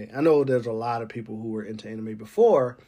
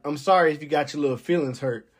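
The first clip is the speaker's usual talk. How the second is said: condescending fake apology; faster than usual. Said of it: "people who talk like this".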